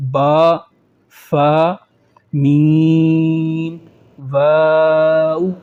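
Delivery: با فا میم واو articulated with the lips, میم and واو held long; lip letters. Shown as a demonstration. Teacher demonstrating the four lip letters clearly. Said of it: "ہونٹوں سے صرف چار حروف".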